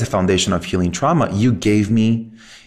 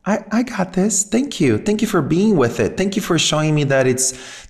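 relieved gratitude; 7 semitones higher than usual. Acted. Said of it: "I felt like".

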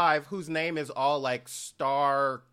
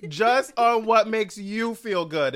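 mock sexy voice; 6 semitones higher, 4 dB louder than usual. Mocking co-host's sexy ad voice.

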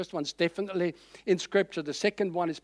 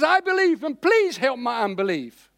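high, louder pleading cry fading into a plea; desperate confession; 5 semitones higher, 4 dB louder than usual. Retold or imitated. Preacher voicing the father's confession to the Lord, pleading. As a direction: cry it out then soften to asking. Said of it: "He says".

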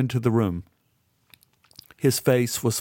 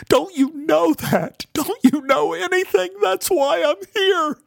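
high, pleading sob in her voice; a distraught girl breaking down in tears; crying; 12 semitones higher, 3 dB louder than usual. A narrator's reading. Beth breaks down sobbing, pleading.

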